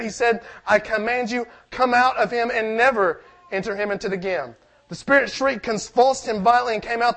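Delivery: measured Bible reading to the congregation; preacher reading scripture aloud. Acted. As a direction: read the passage out steadily.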